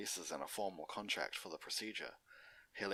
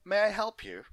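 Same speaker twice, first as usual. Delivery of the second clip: higher, louder voice of a pony receptionist; 14 semitones higher, 10 dB louder than usual. Acted. Receptionist greeting Big Mac, high polite voice.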